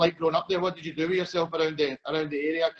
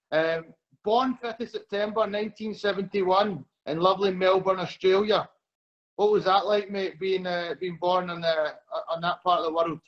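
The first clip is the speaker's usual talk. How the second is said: Glaswegian accent. Real, not acted. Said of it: "had some issues with my Glaswegian accent".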